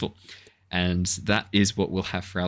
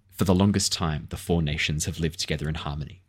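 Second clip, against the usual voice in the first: dramatic intro narration; 2 semitones lower than usual. Shown as a demonstration. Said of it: "my little intro that I'm thinking is gonna be".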